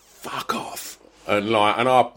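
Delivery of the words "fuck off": much softer, whispered dismissal; retold hushed retort. Dad facing two women in corridor, hushed retort. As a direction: say it under the breath, voiceless. Retells own retort in the standoff.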